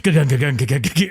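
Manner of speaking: rhythmic mouth-made thudding; quick repeated chugging sound effect; imitated running noise. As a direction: imitate bodies bouncing off ropes. Imitates wrestlers running the ropes.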